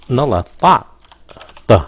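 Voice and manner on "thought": thought starting with a hard, unaspirated t. Shown as a demonstration. Teacher simplifies th for learners, T sound. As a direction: say thought like "taht". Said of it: "đọc là âm T".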